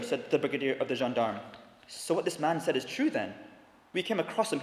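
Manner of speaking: measured storytelling read from a novel; dramatic reading of a story passage in a sermon. A narrator's reading. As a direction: read it like a preacher sharing a classic.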